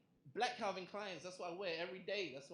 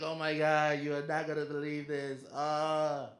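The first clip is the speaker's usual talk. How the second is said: put-on excited girlfriend; 7 dB louder, slower than usual. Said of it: "And she's like".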